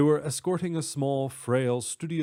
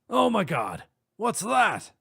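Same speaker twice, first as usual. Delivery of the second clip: high, loud alarmed cry; shouted; 9 semitones higher, 4 dB louder, slower than usual. Acted. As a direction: shout it out in shock. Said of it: "a man shouted".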